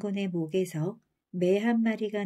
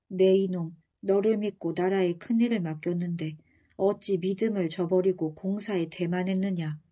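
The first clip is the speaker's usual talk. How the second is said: withering put-down. Acted. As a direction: cut him down with each word. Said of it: "목소리가 칼날처럼 산성 마루에 꽂혔습니다".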